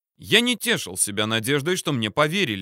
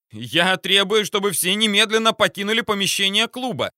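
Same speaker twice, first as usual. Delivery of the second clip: high shrill panicked squeal; shrieking; 9 semitones higher, 4 dB louder than usual. A narrator's reading. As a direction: screech it in panic. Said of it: "не своим голосом заверещал маньяк".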